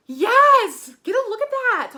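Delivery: loud, high, exultant; thrilled cheer. Real, not acted. Vlogger showing viewers the glitter, thrilled cheer. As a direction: cheer and show it off proudly.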